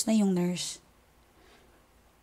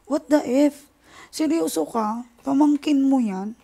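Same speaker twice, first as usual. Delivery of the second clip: higher and louder, appalled; outraged disbelief; 5 semitones higher, 5 dB louder, slower than usual. Real, not acted. Vlogger reacting to the niece's mistreatment, outraged and higher. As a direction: react like you can't believe what you just heard.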